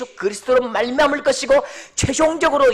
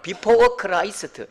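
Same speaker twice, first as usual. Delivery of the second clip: slow English in Gyeongsang accent; much slower than usual. Shown as a demonstration. Preacher showing the congregation his regional pronunciation, Gyeongsang-accented English. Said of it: "경상도 발음".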